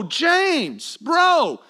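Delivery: a touch of bro-to-bro protest; mock exasperated. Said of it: "I wanna go".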